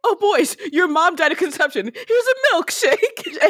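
high, sing-song Italian papa; high comic Italian voice; mock Italian accent. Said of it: "I have to do the Italian accent".

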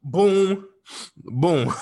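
loud hype boom; hyped up. Pretend. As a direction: punch it like a hype man. Hyped joke.

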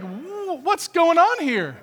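high, loud and slowed-down demand; older son hearing music from his father's house, calling out in disbelief; startled older son. Acted. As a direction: drag out the question in bewildered outrage. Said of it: "And he's like".

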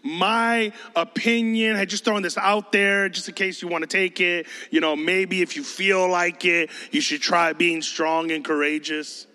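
mild, noncommittal suggestion; lightly mock a tentative advice-giver; casual hinting. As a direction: toss it out as an optional idea. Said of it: "He's not hinting".

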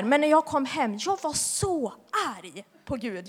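ordinary talk

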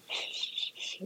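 whispered shushing; quiet hiss to settle your own nerves; hushing. Retold or imitated. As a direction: shush it under your breath. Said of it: "Like, in my head".

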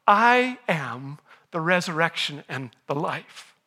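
slow, low, weighty pronouncement; solemn declaration. Retold or imitated. Preacher quotes Jesus surprising Martha, solemn and slow.

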